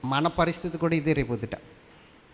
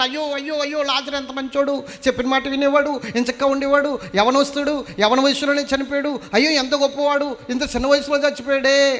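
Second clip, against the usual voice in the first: higher, louder hammed-up lament; mock mourners wailing; 8 semitones higher, 5 dB louder than usual. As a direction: imitate the wailing crowd, half in jest. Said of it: "అని ఏడుస్తున్నారట".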